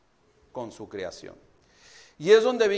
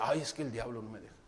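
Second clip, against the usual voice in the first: mock whiny excuse; 8 semitones lower, 10 dB quieter, much faster than usual. Mocking believers' devil excuses.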